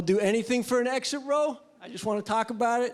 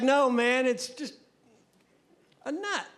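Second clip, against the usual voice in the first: friend shrugging it off; 4 semitones higher than usual. Retold or imitated. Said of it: "And he's like".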